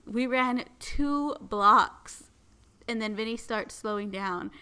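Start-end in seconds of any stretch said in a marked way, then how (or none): 0.1-2.3 slow, panting, louder and higher, gasping out each word; mock breathless, barely getting the words out; out of breath. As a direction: wheeze it out like you just sprinted two blocks. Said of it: "And then I'm like".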